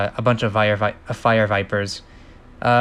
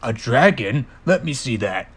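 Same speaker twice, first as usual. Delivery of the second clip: doubtful dad voice; skeptical. Acted. Dad Spider eyeing his son's catch, skeptical. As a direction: question it like an unconvinced father.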